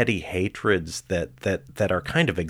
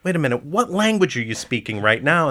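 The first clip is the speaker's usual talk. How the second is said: mock disbelief; 8 semitones higher, 3 dB louder, faster than usual. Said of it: "And I'd go".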